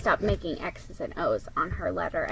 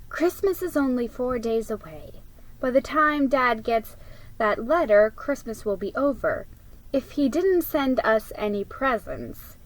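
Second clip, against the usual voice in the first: patient big-sister explaining; 4 semitones higher than usual. Acted. Jill explaining to Molly in a very patient voice. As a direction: spell it out calmly like to a child. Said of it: "in a very patient voice".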